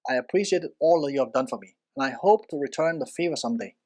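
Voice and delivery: sincere and grateful, a little fast; quick, heartfelt thank-you; simple honest statement. Shown as a demonstration. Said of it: "This was a simple, honest statement".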